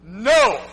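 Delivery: firm, drawn-out "No"; one weighty "No", set apart by pauses; emphatic refusal. Retold or imitated. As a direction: stand your ground on "No". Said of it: "Very emphatic".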